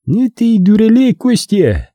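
high, ringing teasing voice; high-pitched jeer; mocking opponent. A narrator's reading. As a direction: call him a fool with amusement. Opponent teases him while stepping out.

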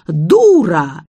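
loud squawked parrot shriek of Дура. A narrator's reading. Parrot Hector yells at the dog in Zoya's voice, shrieking. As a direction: squawk it like a parrot mimicking the old lady. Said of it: "завопил Гектор".

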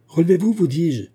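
«Relevez-vous» lancé plus haut et plus fort, «vous dis-je» martelé; répète l'ordre en haussant la voix, à bout; ordre crié. Acted. Père répète l'ordre, insistant. (le magistrat crie à son fils de se relever)

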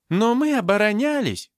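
loud, high protest; indignant exclamation. A narrator's reading. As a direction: cry out high in your own defence. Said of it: "воскликнула Зинаида". (громкое возмущённое восклицание)

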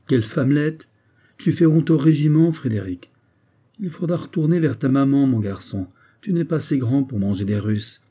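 lightly acted scorn, starting high; mocking taunt. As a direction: belittle a weeping comrade. Soldier mocks his weeping comrade.

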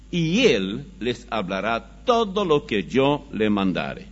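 declaimed scripture; scripture reading. Acted. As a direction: read the verse out with weight, drawing out key words.

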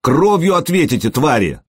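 high, shrill-pitched yelled threat; yelling threat. Acted. Humiliated lad yelling at the warriors in a high outcry. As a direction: scream it at the laughing crowd. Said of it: "завопил он".

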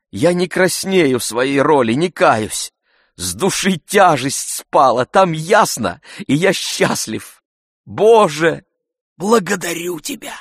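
high, loud, elated; joyful. A narrator's reading. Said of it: "весело заключил он".

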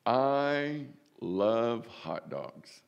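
very slow, drawn-out love of hot dogs; savouring. Pretend. Example of everyday love, drawn out and savouring. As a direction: linger over every word like you can taste it. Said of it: "For an example".

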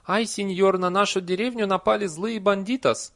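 high, loud, hammed-up villager lament; mock Spanish peasant plea. A narrator's reading. Villager begs a señor for help against bandits, hammed-up plea. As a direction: wail to the señor like a stage peasant. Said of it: "прижал её к груди на манер".

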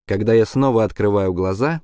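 usual speaking voice

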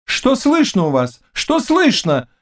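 high, urgent, feverish asking; feverish questioning. A narrator's reading. King begs the knight for news, feverish and high. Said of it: "лихорадочно спрашивал король".

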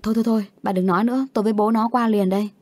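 fast, panicked rush of words. Acted. Mother cuts off the neighbour in a fast panic. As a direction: blurt it out in alarm, words tumbling. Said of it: "Mẹ mình mới hốt hoảng".

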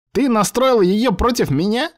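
high, indignant machine accusation; accusing computer. A narrator's reading. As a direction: blame the traitor.

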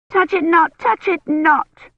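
put-on high, loud screaming child; frightened little girl screaming; child's scream. A narrator's reading. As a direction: scream it in terror, shrill and high. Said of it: "Agnes screamed".

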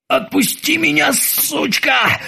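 high, strained yell; strangled shout. A narrator's reading. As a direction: try to scream while choking. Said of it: "хотел он крикнуть". (сдавленный крик)

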